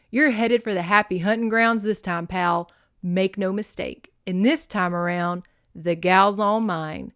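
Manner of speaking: loud, emphatic gloating; crowing triumph. Acted. Tony claiming the gal from his rival, crowing triumph. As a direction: gloat forcefully, stretching the last phrase. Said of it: "he crowed".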